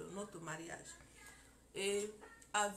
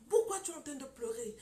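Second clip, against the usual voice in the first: preacher calling her out, louder; louder challenge; 4 semitones higher, 7 dB louder than usual. Retold or imitated. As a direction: push the question out louder. Preacher confronts the crying woman.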